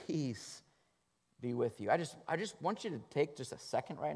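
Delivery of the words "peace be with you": soft, calm blessing; gentle Jesus. A narrator's reading. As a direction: hush it kindly. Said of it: "Jesus said to them again".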